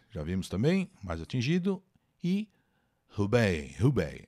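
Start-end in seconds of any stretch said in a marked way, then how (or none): 3.2-3.8 Hubei said as hu-BAY; pronunciation demo. Shown as a demonstration. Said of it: "Essa é a pronúncia mais comum". 3.8-4.2 Hubei repeated, hoo-bay with a falling end; pronunciation demo. Shown as a demonstration. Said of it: "Essa é a pronúncia mais comum".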